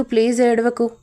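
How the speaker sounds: plain reading voice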